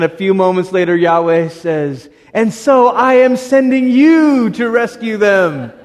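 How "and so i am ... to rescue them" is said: voice of God. Acted. God's twist, slow and loud.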